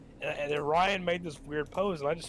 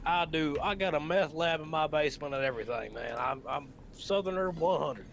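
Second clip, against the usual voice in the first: put-on Southern accent. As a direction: play a Georgia redneck. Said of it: "I'm a Georgian, you hear?".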